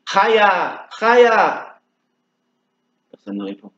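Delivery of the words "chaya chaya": high call across the field at night. Acted. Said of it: "Et il crie". (appel lancé très haut dans la nuit)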